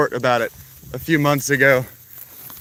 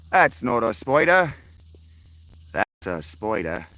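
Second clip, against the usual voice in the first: lightly hammed Aussie showman; Crocodile Dundee parody. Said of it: "Spider Dundee, that's right".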